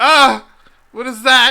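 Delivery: very high, loud, frightened, panicked cry. The narrator voices everyone hearing a disembodied voice, panicked freaking out. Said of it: "Everyone starts freaking out".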